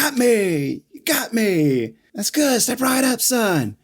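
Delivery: high, gleeful mock taunt; Milton taunting Kevin. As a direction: laugh off the bullets. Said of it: "and he's like".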